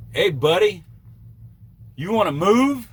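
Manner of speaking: put-on high, loud nagging northern accent; annoying northern accent. Trucker mocking a rude northern driver in a northern accent. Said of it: "annoying northern accent".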